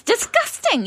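disgusted. Acted. Recoiling from prosthetics.

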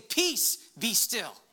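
Jesus commanding the waters. Acted. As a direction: call out over the storm. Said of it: "he was saying".

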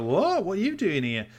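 startled man in headphones, lightly voiced; surprised. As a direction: act out a startled homeowner. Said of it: "Like, really surprised".

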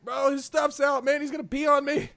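high-pitched, alarmed complaint; mock distressed protest. Passenger in the back to driver about drunk friend, mock distressed protest.

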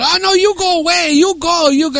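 high mock Asian accent; mocking Asian-accent imitation, high-pitched; heavy Asian accent. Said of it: "in a heavy Asian accent".

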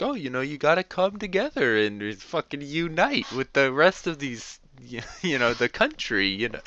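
high, sneering imitation of smug Republicans; mocking quote. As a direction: mimic their preachy calm with a sneer. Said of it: "they're the calm ones who'd be like".

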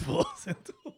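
breathy echo through a laugh; mock whisper. Co-host echoing the creepy phone greeting, mock whisper. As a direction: softly mimic a sleazy hotline.

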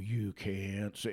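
low, slow scolding mimicry of campus censors; mock censor. Mocking the universities to his audience, low slow mimicry. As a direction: drawl it like a prissy scold.

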